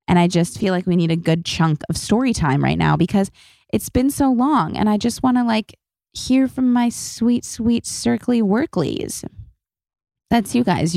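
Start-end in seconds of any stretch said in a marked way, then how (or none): 5.4-9.2 cooing. Real, not acted. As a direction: coo it like talking to a pet. Cooing pet name to listeners.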